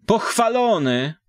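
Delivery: put-on high, lilting old peasant woman's greeting; village woman's greeting. A narrator's reading. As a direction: greet them sing-song like a village matron. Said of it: "zatrzymała się, pozdrawiając". (wysoki, śpiewny głos wiejskiej baby)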